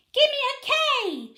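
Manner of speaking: high, loud cheerleader yell; cheer shout. A narrator's reading. Cheerleaders leading the fans in a chant, loud and high. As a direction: shout it out to the crowd. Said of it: "shouted the cheerleaders".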